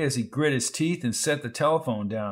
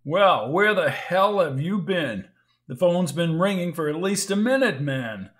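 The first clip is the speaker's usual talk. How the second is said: impatient annoyed; 4 semitones higher than usual. Acted. Impatient doctor on phone.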